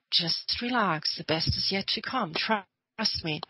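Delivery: slow, gentle imitated soothing; calming reassurance. Taking the friend's hand in the dark, calming them down. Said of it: "you calm your friend down".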